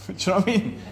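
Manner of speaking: "Do you know what I mean?" said through a real laugh; laughing while talking. Real, not acted. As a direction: laugh it out, half amused. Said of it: "I'm laughing".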